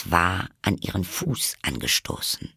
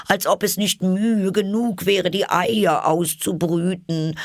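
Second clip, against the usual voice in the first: very high bird voice, complaining; a fussy bird listing its troubles; aggrieved pigeon; 11 semitones higher, 4 dB louder than usual. A narrator's reading. Pigeon voice, held figure.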